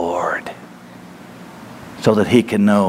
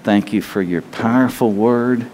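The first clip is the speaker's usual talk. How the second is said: closing prayer; 3 semitones higher than usual. Acted. Pastor praying over the congregation, fervent prayer. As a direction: pray it out, building to a passionate cry.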